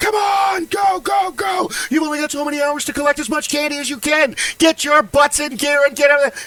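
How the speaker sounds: very high, loud, barking put-on drill-sergeant yell. Retelling standing on the street on Halloween night: imitating own drill sergeant yell. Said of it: "I just stand and yell on the street".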